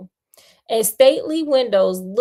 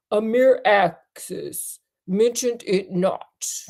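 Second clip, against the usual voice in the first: contempt; slower than usual. Acted. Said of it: "with unconcealed contempt".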